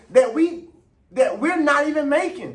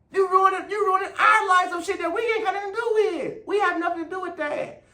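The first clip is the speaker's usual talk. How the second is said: raised, heated accusation; angry shout; 5 semitones higher than usual. Real, not acted. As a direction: shout it at them, fed up. Angry rant at officials.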